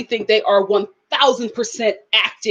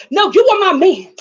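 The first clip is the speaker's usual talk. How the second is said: mock auntie Sarah; 5 semitones higher, 3 dB louder than usual.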